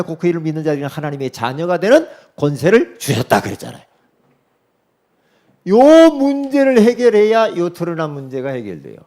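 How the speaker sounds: loud, high, driving sermon delivery; preaching at full force. Acted. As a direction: hammer each line home to the congregation.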